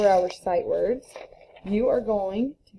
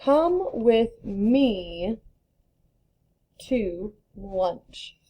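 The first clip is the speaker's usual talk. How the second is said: slow example; much slower than usual. Retold or imitated. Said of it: "Or I might say".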